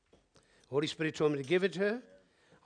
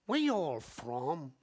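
put-on quoted girl's question; 4 dB quieter, slower than usual. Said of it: "Wait a minute".

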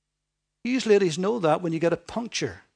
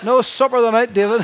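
laughing through a teasing line; laughing joke; 4 semitones higher, 8 dB louder than usual. Real, not acted. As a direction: chuckle it out to the congregation. Preacher jokes about his wife.

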